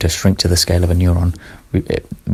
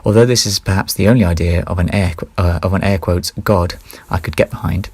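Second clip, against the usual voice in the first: misjudged reading tone; wrong tone. Shown as a demonstration. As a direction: read in the wrong tone, whispery end. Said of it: "I read that in the wrong, uh, tone".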